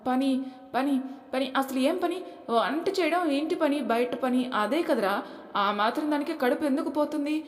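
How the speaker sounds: high, mocking scoff; scornful mother. Mother-in-law mocks the daughter-in-law, scornful. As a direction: scoff at the idea of work.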